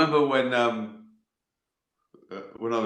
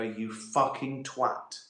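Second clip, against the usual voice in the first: slow, drawn-out mock reproach; aggrieved arse; much slower than usual. Arse blaming the mouth after a vindaloo, mock reproach. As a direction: lean slowly on the insult, lightly acted grievance. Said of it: "your ass is gonna go".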